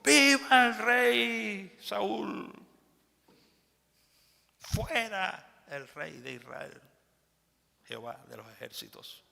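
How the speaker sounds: slow, loud, high cheering cry; joyful acclaim. Acted. The people acclaiming King Saul, joyful loud cheer. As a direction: hail the new king like a cheering crowd. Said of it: "el pueblo clamó con alegría".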